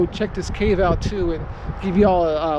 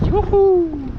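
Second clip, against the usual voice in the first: calling out; 11 semitones higher, 6 dB louder than usual. Real, not acted. Calling out on arrival.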